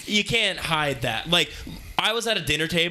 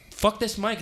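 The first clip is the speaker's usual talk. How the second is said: shouting; 7 semitones higher, slower than usual. Real, not acted. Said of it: "Stop shouting".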